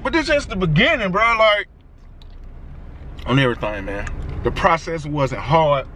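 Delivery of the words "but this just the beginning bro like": excited. Real, not acted. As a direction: shout it like you finally won. Pulls up after getting the car.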